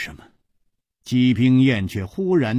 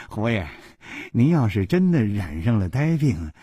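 憋不住笑着打趣; 边笑边说，带着轻笑声; 忍不住笑. Acted. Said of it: "小潘忍不住笑着说". (小潘笑着打趣胡铁花)

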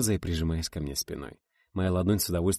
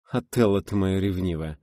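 tender cooing; 5 dB louder than usual. Acted. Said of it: "нежно заворковала Рита".

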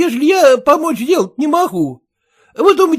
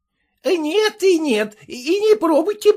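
usual speaking voice

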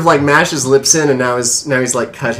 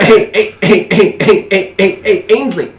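calling out; 7 semitones higher, 7 dB louder than usual. Acted. GM voicing dying father.

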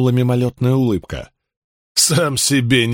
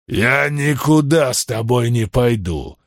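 grumbling; slower than usual. Acted. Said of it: "проворчал здоровяк Гал".

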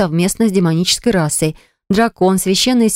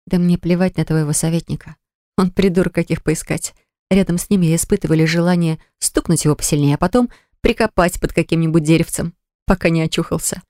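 tender whisper. Acted. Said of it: "прошептала со всей нежностью". (нежный шёпот)

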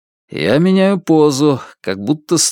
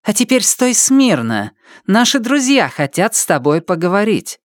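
menacing cultist voice; 7 semitones higher than usual. Acted. Cultist threatens the thief.

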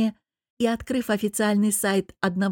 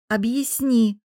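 insistent, a little louder and higher; louder demand; 3 semitones higher, 3 dB louder, slower than usual. A narrator's reading. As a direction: demand it with a slightly raised voice. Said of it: "уже громче потребовала я". (требовательно, чуть громче)

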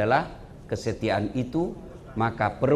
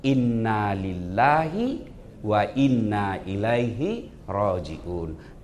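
slow, drawn-out Arabic phrase; solemn recitation; 5 semitones lower, much slower than usual. Shown as a demonstration. Preacher showing the couple what to say, slow and solemn. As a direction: intone it slowly and gravely. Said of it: "kau ucapkan kata Allah".

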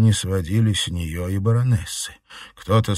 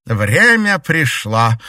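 solemn declaration; 6 semitones higher, 7 dB louder, slower than usual. A narrator's reading.

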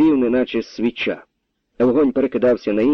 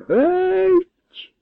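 a single high roared word. A narrator's reading. The colonel roars at the captain to get out, furious roar. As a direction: roar him out of the house. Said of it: "заревів полковник".

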